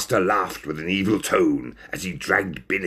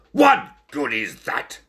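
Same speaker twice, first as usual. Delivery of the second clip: slow, slightly raised snappish question; mildly snapped; 4 semitones higher than usual. Acted. Ringmaster dismissing Stoat's trick, mildly snappish. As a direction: snap it with measured impatience. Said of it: "snapped the ringmaster".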